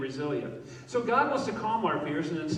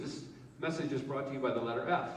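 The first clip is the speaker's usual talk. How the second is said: Sesame Street announcer; 4 semitones lower, 5 dB quieter, faster than usual. Pretend. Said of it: "Sesame Street people here?".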